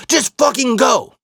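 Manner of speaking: high, slow and irritated; irritated snap. Retold or imitated. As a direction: bite it off impatiently. Injured friend brushing him off.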